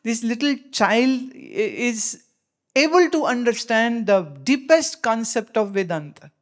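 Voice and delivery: very slow, measured English teaching; slow deliberate explanation. Acted. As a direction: spell it out slowly for the listeners. (धीमे, ठहर-ठहरकर अंग्रेज़ी में समझाना)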